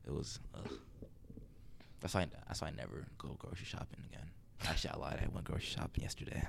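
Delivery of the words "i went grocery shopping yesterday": whispering. Real, not acted. Confessing she lied, aside.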